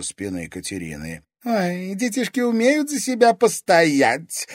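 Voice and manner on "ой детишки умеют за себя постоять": much higher, louder, acid sarcasm; sarcastic. A narrator's reading. Lady to the armed kids, sarcastic. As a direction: sneer it like mock praise. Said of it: "язвительно сказала Вероника".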